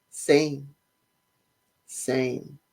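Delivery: low, unimpressed mock reply; falls flat. Fiancée answering his compliments, falls flat. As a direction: toss back a soft, low, lacklustre echo. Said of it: "it just falls flat".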